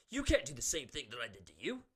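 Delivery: retold furious protest at his opponent; mock angry yell. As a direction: bark the rules at the guy who copied you. Angry quote at rival wrestler.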